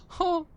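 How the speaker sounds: high goose honk from far away; distant honk. Acted. Game master voicing a goose heard in the distance, distant honk. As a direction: imitate a faraway goose call. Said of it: "you just hear in the distance a".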